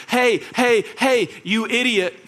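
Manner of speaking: mock angry boss. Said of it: "Michael walks up to him and he goes".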